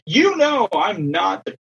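high, emphatic objection; acted-out indignation; retold indignant protest. Coach argues back at umpire.

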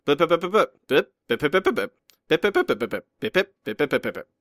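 rapid blip blip noises mimicking speech bubbles; mock dialogue blips. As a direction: rattle off the blips like chatter. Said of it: "there's dialogue and it's".

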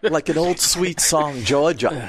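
slow, playful Southern drawl. Pretend. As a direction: stretch it out in a mock Southern drawl. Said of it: "When the speaker does his Southern accent".

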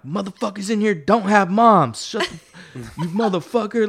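high, loud mock outrage; retold angry berating. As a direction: imitate inmates jeering at the crybaby. Inmates berating the rich kid.

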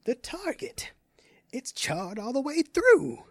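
put-on high, excited old man. Grandfather excited over the ring's charred target. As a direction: marvel at the burnt target. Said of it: "his grandfather said excitedly".

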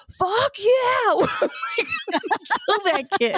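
high, strained mock yell after the car pulls away; over-the-top angry squeal; mock furious yell. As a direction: shriek it out in fake rage. Retold rage after drive-off.

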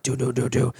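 quick knock-knock sound made by voice; spoken imitation of a knock at the door; imitated knocking. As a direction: voice the knocks as short repeated syllables. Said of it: "I hear a knock".

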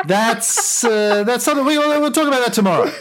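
grand speech slipping into a laugh; roman orator. Acted. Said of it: "Senate and the people of Rome".

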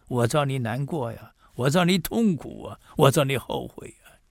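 ordinary talk, nothing marked

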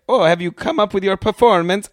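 high, bright game-host voice; playful game host. Retold or imitated. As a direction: play the cheerful game host. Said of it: "and it's like".

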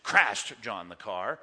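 low, slow, "Crashed" hit hard; mock mad emphasis. Shown as a demonstration. Teacher showing how he'd say it when mad, mock anger. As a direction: drag it out as if mad, low-pitched. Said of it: "I would say that when I were mad".

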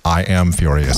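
low, toneless claim of rage; deadpan mock fury. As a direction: parody anger with zero emotion. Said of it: "I hear that emotion in his voice".

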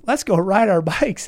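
lightly mimicked keenness for a ride; gleeful enthusiasm. Rider imitating his friend twenty hours in, gleeful enthusiasm. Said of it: "he enjoys it at a more visceral level".

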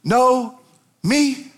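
high, pressing challenge; Jesus challenging. Acted. Jesus pressing Martha on what he can do, high and intense. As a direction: press her, do you really know me.

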